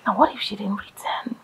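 hushed, barely voiced dread; fearful whisper. Wife whispering her fear to husband. Wife fears daughter is lost.

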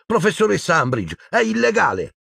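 high-pitched urgent protest; girl crying out. A narrator's reading. Hermione warning Umbridge it's illegal, high cry. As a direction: protest in a high, alarmed girl's voice. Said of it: "gridò Hermione".

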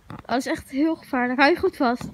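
blocked nose from a cold; stuffy nose. Real, not acted. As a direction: talk through a stuffed-up nose. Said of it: "Sorry voor mijn verkoudheid".

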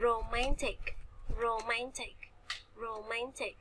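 "romantic" stressed on its middle syllable MAN; stress on second syllable. Shown as a demonstration. Teacher modelling for students, "romantic" with second-syllable stress. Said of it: "romantic thì chúng ta sẽ nhấn âm thứ, thứ hai".

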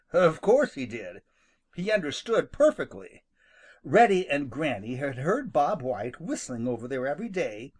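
usual speaking voice

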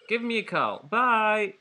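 cheery character voice. Acted. Voicing phone character signoff.

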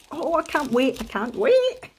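eager, with pitch lifting a little; bubbling over with anticipation; excited. Real, not acted. Crafter looking forward to her parcel and trip, excited. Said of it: "Sorry, I'm very excited".

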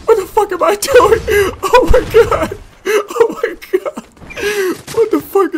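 high loud cracking laugh-wail; hysterical laugh-crying. Real, not acted. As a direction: lose it, laughing and wailing. Chaotic fight, crying laughter.

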